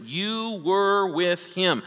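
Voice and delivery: a hint of a sneering servant girl; contemptuous statement. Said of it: "And she says it with contempt".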